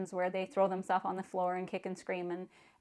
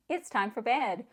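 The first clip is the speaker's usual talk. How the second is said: excited; 2 semitones higher than usual. Shown as a demonstration. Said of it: "to make it exciting and say".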